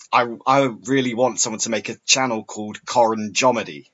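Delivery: Coron Jomedy with first letters swapped; jumbled syllables. Shown as a demonstration. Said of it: "that's a spoonerism".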